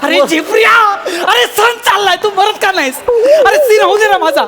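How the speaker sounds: worked-up, high-pitched telling-off; exasperated rant. Acted. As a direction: rail at him for ruining your scene. Director rants at the shouting crewman.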